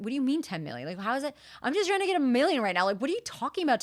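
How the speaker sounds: mounting protest, rising high; flustered disbelief. Retold or imitated. Client protesting coach's ten million, flustered. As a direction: build from baffled to exasperated. Retells baffled protest at the figure.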